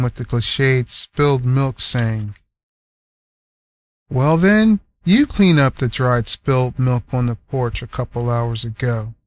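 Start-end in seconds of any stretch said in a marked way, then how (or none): 4.1-9.1 retort. Acted. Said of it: "retorted Selma".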